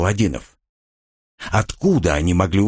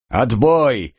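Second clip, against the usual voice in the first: curt command; 2 semitones higher than usual. Acted. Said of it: "скомандовал маг".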